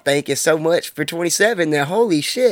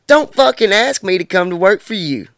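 mildly heated rebuke, pitched up; retold telling-off; 5 semitones higher, 3 dB louder than usual. Man retelling his rebuke of a would-be boss, mildly indignant. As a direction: reenact laying down a firm refusal.

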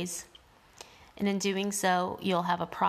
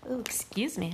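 a real sneeze, then an apology; sneezing; 3 semitones higher than usual. Real, not acted. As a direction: sneeze before the words. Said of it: "I just sneezed".

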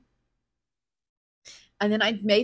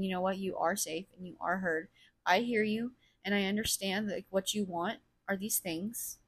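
softer, soothing voice to oneself; gentle self-reassurance; 5 dB quieter than usual. Retold or imitated. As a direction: reassure yourself quietly, like comforting a child. Imagined reassurance given to oneself.

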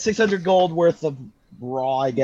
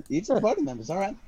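whisper; 3 semitones higher, 6 dB quieter, much faster than usual. Acted. GM reacts to the gift.

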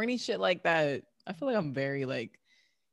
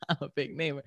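laughing it back lower and softer; laughing repeat; 3 semitones lower, 4 dB quieter, faster than usual. Real, not acted. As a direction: echo the joke through a chuckle. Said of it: "repeats friend's joke".

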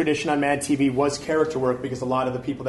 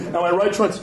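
imitating the director; 3 semitones higher, 6 dB louder than usual. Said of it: "his Johnny Carson".

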